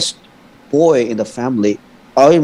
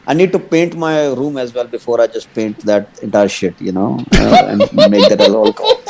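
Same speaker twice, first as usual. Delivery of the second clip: Indian accent; 3 semitones lower than usual. Shown as a demonstration. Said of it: "You want me to say in Indian accent".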